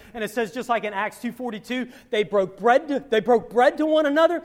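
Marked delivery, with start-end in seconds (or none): 2.1-4.4 preaching fervor. Real, not acted. Preacher building to emphatic point.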